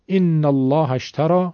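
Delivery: slow, glottal start on «ان», doubled lam in «الله»; slow recitation demo. Shown as a demonstration. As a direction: read «ان الله اشتری» slowly and clearly.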